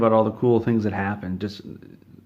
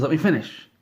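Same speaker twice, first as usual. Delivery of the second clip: higher, insistent let me finish; irritated protest; 6 semitones higher than usual. Acted. Todd snapping at Bernie for interrupting, irritated. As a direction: cut him off, annoyed.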